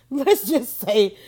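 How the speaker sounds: slow, laughing start to a goodbye. Real, not acted. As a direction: chuckle through the words "Let's just say". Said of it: "let me just say bye".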